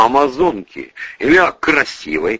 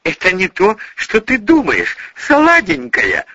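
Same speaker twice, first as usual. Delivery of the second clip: mumbling guilty man; 10 semitones higher than usual. A narrator's reading. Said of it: "промямлил Бонифацкий".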